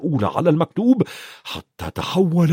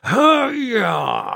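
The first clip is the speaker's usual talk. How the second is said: shouting; 8 semitones higher, slower than usual. A narrator's reading. Uncle shouts the boys out of the kitchen. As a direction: bark the boys out of the room. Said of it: "صاح الخال فيرنون".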